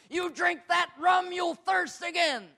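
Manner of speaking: slow, high shout: "You drink that rum, you'll thirst again". Retold or imitated. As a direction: call it out to him. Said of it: "I just shouted out to this guy".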